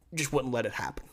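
soft unvoiced whisper; whispered, bitter aside; whispered regret. Real, not acted. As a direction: drop to a whisper like sharing a sore secret. Lament about coach's decision.

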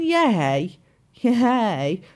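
imitating an effortless, insincere cheer; faked enthusiasm. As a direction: stretch out a token cheer. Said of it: "you know that she's faking it".

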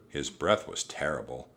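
ordinary delivery

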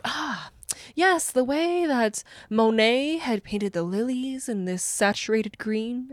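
lightly voiced pretentious snob; a hint of a pompous art critic, drawn out. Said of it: "a little bit of a pompousness".

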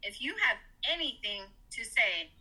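measured, deliberate retort with restrained anger; firm telling-off. Retold or imitated. Mother tells off the doctor about her son, firm. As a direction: lay it down word by word, without raising the voice. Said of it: "I said it exactly like that".

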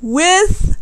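high, slowed, laughing outrage; laughing disbelief. Real, not acted. Telling listeners about the double date, slow laughing outrage. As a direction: stretch it out in disbelief.

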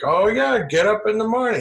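high, put-on stockbroker patter; stockbroker impression. Stockbroker answering if he still works, high mocking imitation.

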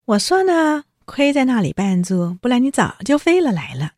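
尖声冷笑着挖苦, 音调高; 酸溜溜地讥讽宝玉; 冷笑挖苦. Retold or imitated. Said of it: "林黛玉就冷笑了". (带着醋意冷笑地说)

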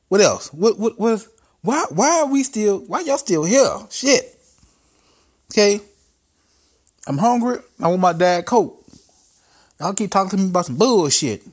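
high loud whine; high, loud petulant boss; Trump whining. Acted.

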